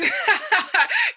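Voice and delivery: a high laugh bursting out loud; burst of laughter. Real, not acted. Funny memory of girl's sword.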